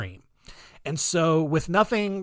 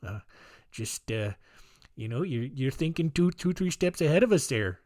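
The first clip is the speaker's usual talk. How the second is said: put-on Canadian accent; 3 semitones lower, 6 dB quieter than usual. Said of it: "I don't know what Canadian voice that is".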